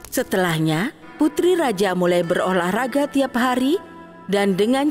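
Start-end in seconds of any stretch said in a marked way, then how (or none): none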